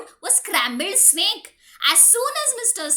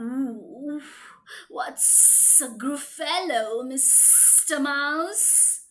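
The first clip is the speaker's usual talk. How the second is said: low, slow snake voice; sly snake; 3 semitones lower, slower than usual. Acted. Snake asks the mouse about the Gruffalo. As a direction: drawl it low like a curious snake.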